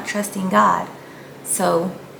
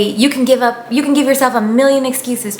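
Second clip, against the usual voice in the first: mock excuse voice; 4 semitones higher, 4 dB louder than usual. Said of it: "or you say".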